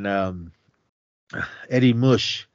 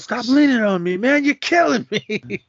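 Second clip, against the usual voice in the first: mock annoyed complaint; 12 semitones higher, 3 dB louder than usual. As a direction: complain like he's being crushed. Sonny complaining about heavy man.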